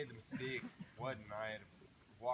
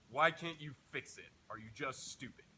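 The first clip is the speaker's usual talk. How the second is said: snapping; 3 semitones higher, 5 dB louder than usual. Retold or imitated. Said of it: "she finally snaps and says".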